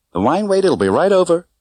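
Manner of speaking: a polite waitress keeping it tidy and prim. A narrator's reading. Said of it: "said the waitress primly".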